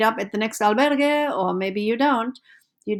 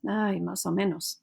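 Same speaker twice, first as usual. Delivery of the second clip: quieter tired "Ay, más o menos"; weary groan; 4 dB quieter than usual. Pretend. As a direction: sigh it out as if your feet hurt. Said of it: "foot pain because you've been walking".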